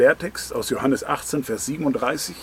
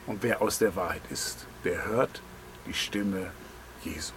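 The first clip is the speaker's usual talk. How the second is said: hushed and fading; 6 semitones lower, 10 dB quieter than usual. Acted. Verse repeated, fading into hush.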